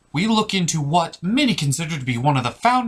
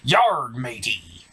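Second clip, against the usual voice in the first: pirate voice; slower than usual. Acted. Pirate character interrupts host.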